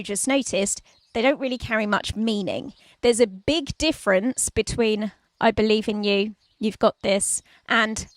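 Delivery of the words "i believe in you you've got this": firm and convinced; mean every word of it; with conviction. Shown as a demonstration. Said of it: "the difference being the tone of my voice".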